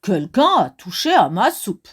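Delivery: a hint of a gruff big bear; mildly low big bear. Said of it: "dit de sa grosse voix".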